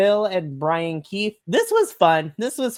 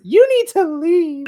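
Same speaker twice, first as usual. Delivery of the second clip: mock diva order; 13 semitones higher, 7 dB louder than usual. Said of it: "tells her that she needs to".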